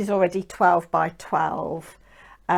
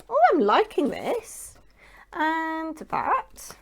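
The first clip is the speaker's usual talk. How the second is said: whisper; 9 semitones higher, slower than usual. Real, not acted. Admiring paper.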